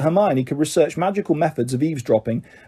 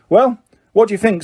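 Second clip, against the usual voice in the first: happy; 6 semitones higher, 4 dB louder than usual. A narrator's reading. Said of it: "said Bagman happily".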